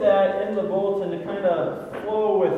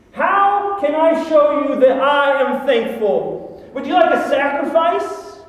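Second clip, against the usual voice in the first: mock-eager, louder sarcastic offers; hammed-up sarcastic people bargaining with God; sarcasm; 4 dB louder than usual. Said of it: "read this with some sarcasm".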